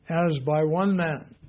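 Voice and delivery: slow, loud, "one" hit hard; stress on one. Shown as a demonstration. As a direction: lean on "one" in "as by one man". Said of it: "it's sin preceded by a definite article".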